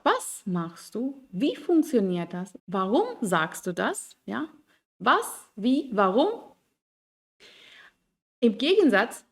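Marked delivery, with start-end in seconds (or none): 0.0-4.2 slow, the W-word stressed each time. Shown as a demonstration. Teacher listing W-questions with stress on the W-word. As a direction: hit Was, Wie, Warum. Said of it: "Die Satzbetonung ist immer auf das W-Wort".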